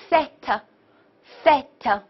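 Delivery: "fat" slowly as fête, open eh; open è pronunciation. Shown as a demonstration. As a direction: model "fat" with wide vowel and released t. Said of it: "都应该读作A这个音".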